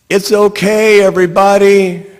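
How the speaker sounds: high, loud call after them; yelling. Retold or imitated. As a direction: call out to the crowd. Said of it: "And I'm yelling after them".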